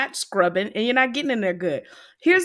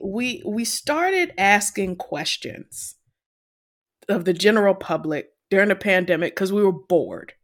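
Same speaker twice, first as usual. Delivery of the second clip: thumping on the microphone while talking; tapping the mic. Real, not acted. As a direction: knock the mic as you speak. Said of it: "stop hitting your microphone".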